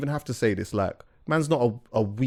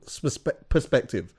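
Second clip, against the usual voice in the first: normal talking voice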